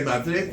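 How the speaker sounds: Madrid with the last d softened to "th"; Castilian lisp. Shown as a demonstration. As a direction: lisp the end of Madrid, Spanish style. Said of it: "Sometimes they say Madrid".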